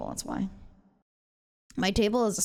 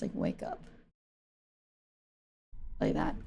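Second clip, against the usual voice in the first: snore imitation; 11 semitones lower, 7 dB quieter than usual. Shown as a demonstration. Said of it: "This is how some of you guys sound".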